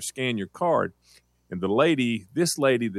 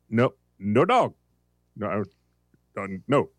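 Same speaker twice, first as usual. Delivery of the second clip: mock German accent; slower than usual. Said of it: "she has a German accent".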